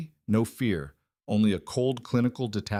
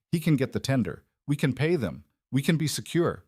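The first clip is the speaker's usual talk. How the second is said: desperate pleading; 4 semitones higher than usual. Acted. Terrified daughter begs father.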